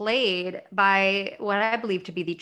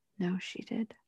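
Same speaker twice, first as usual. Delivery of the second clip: very quiet, hushed, almost whispered voice; 10 dB quieter than usual. Retelling a TV scene, quoting a character's answer: imitating a very quiet reply. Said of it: "very quietly she goes".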